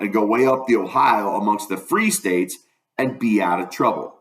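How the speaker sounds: folksy Southern storytelling; lightly voiced dialect narrator; first-person dialect narration. A narrator's reading. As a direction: read it as a country boy's yarn.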